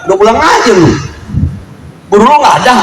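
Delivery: gruff Betawi parent. Retold or imitated. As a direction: bark it like an annoyed parent. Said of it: "Yang ada".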